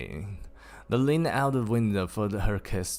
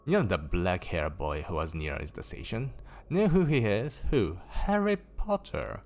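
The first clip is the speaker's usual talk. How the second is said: teasing excitement. Acted. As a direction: tease the big news out. Twins tease with the news.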